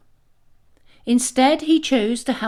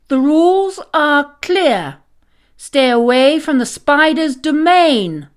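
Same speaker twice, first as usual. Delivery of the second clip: loud stern warning, pitched high; 7 semitones higher, 9 dB louder than usual. Acted. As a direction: lay down the law to the little ones. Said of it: "her voice stern".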